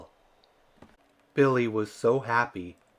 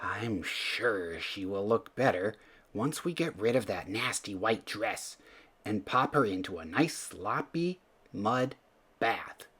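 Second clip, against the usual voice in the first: kind mother; 6 dB quieter than usual. Acted. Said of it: "said Betty kindly".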